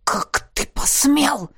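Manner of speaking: slow, hissed disbelief; the betrayed friend hisses at the rival; hissed fury. A narrator's reading. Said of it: "прошипел друг".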